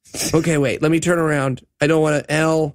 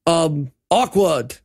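laughing awkward; slower than usual. Acted. Arnold reacts awkwardly, laughing.

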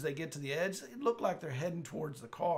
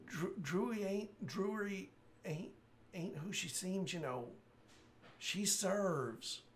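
slow, weak dying warning; a fading man's last warning; 4 semitones higher, slower than usual. Acted. Dying NPC voiced by GM.

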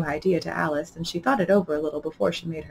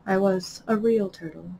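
sighing sadly. Acted. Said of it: "with a deep sigh".

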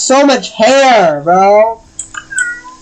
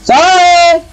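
defensive apology; 7 semitones higher, 3 dB louder than usual. Real, not acted. Defensive apology during game.

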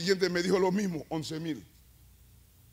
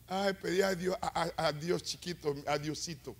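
mocking whiny believer; 5 dB quieter than usual. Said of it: "me detesto cuando la gente".

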